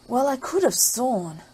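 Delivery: a lightly voiced puzzled grumble; ogre's mutter. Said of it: "he would mutter".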